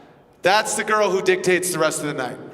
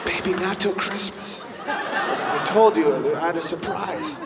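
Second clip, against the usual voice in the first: softer, hushed and coy, a hammed-up tease; teasing whisper; 2 semitones lower, 5 dB quieter, slower than usual. Man teasing his girlfriend in bed, hushed coy tease. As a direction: hold back the surprise playfully. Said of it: "And he's like".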